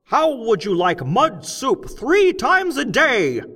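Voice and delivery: loud, high, slow speechmaker shouting to a cavern crowd; loud, high, slow rally speech; rousing oration. A narrator's reading. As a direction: whip up the crowd of gnomes, big and deliberate. Crockett's strike speech.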